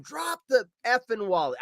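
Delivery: half-strength shouted demand; retold yell. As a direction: re-enact yelling at a thief. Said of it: "I start yelling at him".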